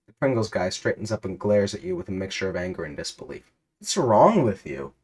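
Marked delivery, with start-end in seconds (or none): 3.8-4.9 demanding. Acted. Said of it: "he demands".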